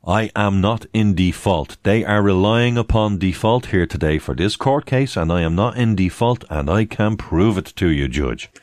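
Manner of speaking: calm firm courtroom statement. Shown as a demonstration. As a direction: assert "not in default" with steady emphasis. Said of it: "That's what you tell 'em".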